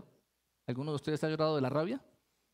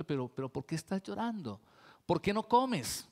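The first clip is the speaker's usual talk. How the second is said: with love. Retold or imitated. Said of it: "pero en amor".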